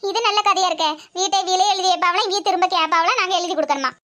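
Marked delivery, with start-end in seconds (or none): 0.1-0.9 scornful laugh. Acted. Mother-in-law mocks son-in-law's demand.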